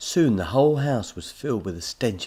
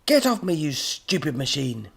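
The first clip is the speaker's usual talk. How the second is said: high, loud outburst, slowing on the insult; angry yell; 7 semitones higher, 5 dB louder than usual. A narrator's reading. Squashed professor to robot, angry yell. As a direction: yell it furiously, starting high.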